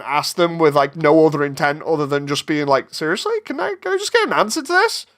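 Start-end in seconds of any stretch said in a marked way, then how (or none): 2.9-5.1 exasperated question. Retold or imitated. Exasperated quote asking a question.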